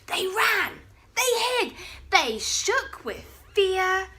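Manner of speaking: high, loud breathless telling; dramatic narration. A narrator's reading. Narrator telling the dinosaurs fleeing, high and excited. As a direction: pump up the panic as they flee.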